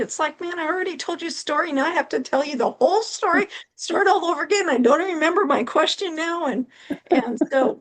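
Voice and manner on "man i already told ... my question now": mildly exasperated, pitched up; acted frustration. Talker made to retell the whole story, frustrated. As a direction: play a touch of fed-up complaint. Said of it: "sometimes you get frustrated".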